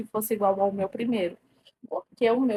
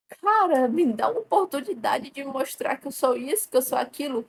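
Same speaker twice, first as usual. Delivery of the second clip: retold plea; 2 semitones higher than usual. Asking him for a chance to show herself, mildly pleading. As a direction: plead it lightly, as if quoting yourself. Voices her plea to crush.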